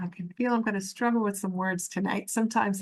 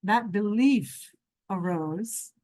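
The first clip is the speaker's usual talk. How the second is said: spiritual meditation teaching. Real, not acted. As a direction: let each phrase settle before the next. Leads a meditation session.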